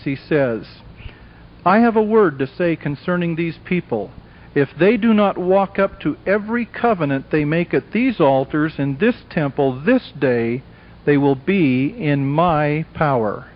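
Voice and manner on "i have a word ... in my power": measured mock-sinister warning, slowing at the end; sinister, vehement. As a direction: imitate a tempter's deliberate, understated threat. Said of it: "sinister approach and vehemence".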